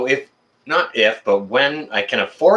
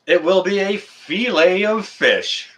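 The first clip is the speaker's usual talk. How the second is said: slow, higher-pitched Southern twang; mock Southern twang; 7 semitones higher, slower than usual. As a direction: draw it out in a teasing Southern twang. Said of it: "Dang you and your southern twang".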